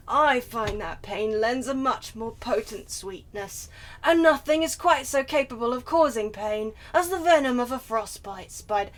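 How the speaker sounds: lightly voiced depressed vampire; a hint of emo brooding as you read; Trevor. Player outvoted into Trevor reading, lightly voiced impression. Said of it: "Just think, just think of him, but more depressed".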